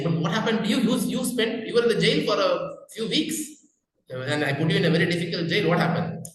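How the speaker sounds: a puzzled king pressing his friend; king's puzzled question. Retold or imitated. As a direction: voice the king rising up in disbelief.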